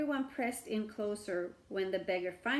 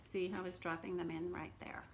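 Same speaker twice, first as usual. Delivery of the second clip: a soft whispered aside about the picture; 3 semitones lower, 8 dB quieter than usual. Real, not acted. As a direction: hush and point it out. Aside to listeners.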